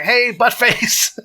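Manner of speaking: high, loud drawn-out taunt; mock screaming. Host imitating the screaming game character, mock yell. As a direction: imitate a little game enemy yelling an insult. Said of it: "like, screaming at you".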